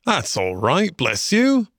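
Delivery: kindly reassurance, lifting high at the end; cheery. A narrator's reading. Rat to apologetic Mole, cheery forgiveness. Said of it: "responded the rat cheerily".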